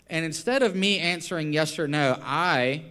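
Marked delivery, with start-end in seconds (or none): none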